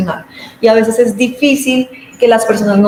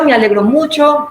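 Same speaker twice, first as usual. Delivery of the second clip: glad; 6 semitones higher than usual. Shown as a demonstration. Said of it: "como les decía".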